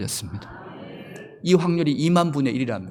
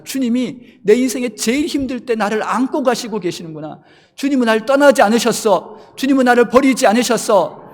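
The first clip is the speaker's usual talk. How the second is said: higher and louder, rising to a triumphant shout; joyful outcry; 9 semitones higher, 9 dB louder than usual. Retold or imitated. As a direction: proclaim it with overflowing joy. Believer's joyful realization.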